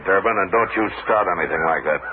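stern rebuke. Acted. Marshal rebukes Durbin's lynching talk.

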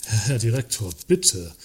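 urgent whisper to the director; hushed, urgent appeal to the boss; whispered plea. Acted. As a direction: beg him under your breath. Pleading with the director, tense.

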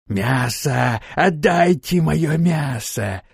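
slow, drawn-out creature wail; creature howl. Acted. Kikimora's head howling for her meat, slow creature wail. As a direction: howl for the meat like a bog monster. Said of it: "завопила Кикимора".

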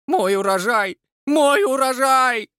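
very high, loud slow wail; wailing lament. Acted. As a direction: mourn the ruined harvest. Brenda's crops destroyed. (надрывный высокий вопль Бренды)

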